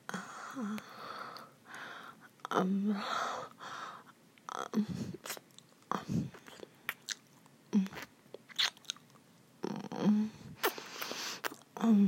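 muffled, talking with mouth full. Acted. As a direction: speak through a full mouth. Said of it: "it's hard to talk with my mouth full".

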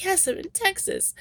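lightly acted, high-pitched insistence; insistent movie character. Movie hero's reply acted out.

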